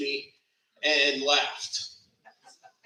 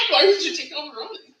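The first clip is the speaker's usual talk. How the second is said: mock stern dad; 8 semitones higher than usual. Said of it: "Or my dad?".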